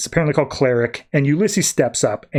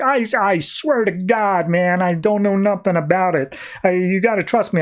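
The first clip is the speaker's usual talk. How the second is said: pleading Vulko; 5 semitones higher than usual. Retold or imitated.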